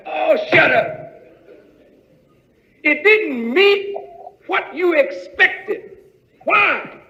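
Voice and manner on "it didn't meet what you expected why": higher, called out hard; preaching shout. Real, not acted. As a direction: hammer the point to the congregation.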